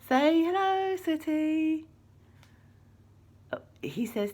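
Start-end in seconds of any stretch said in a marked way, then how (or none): 0.1-1.8 high and loud cheerful call; excited greeting. Real, not acted. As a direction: greet the puppet with big energy. Greeting the puppet for the children.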